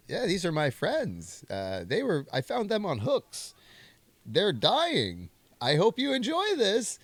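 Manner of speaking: high, slow eerie David Lynch voice; eerie host showing off his creepy friends. Retold or imitated. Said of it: "David Lynch talking to four Woody the Woodpeckers".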